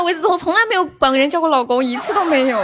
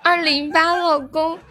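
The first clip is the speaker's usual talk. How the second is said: 撒娇十连. Pretend. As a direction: sweetly coax each husband, half-joking. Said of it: "撒娇十连". (撒娇的语气，拖长尾音)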